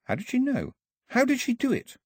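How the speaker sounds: Daphne's furious private thought, high and tight; Daphne thinking furiously. A narrator's reading. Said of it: "thought furiously".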